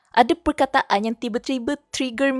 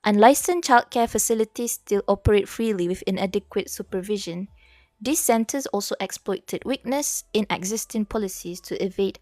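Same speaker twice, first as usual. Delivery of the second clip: demonstrating an accented read-aloud; formal reading in accented English. Shown as a demonstration. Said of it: "so I start baca".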